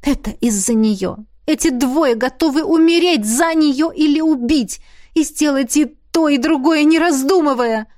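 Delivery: мысли героини, всё выше и тревожнее; нарастающая тревога в мыслях; взволнованные мысли Миранды. Acted. Внутренний монолог Миранды. (Миранда в ужасе думает о драке, взволнованно)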